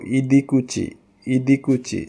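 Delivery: "ইদিকুচি" with a ch in the last syllable; C pronounced ch. Shown as a demonstration. Teacher showing how C sounds, "ইদিকুচি" with chi. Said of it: "সিরে চ".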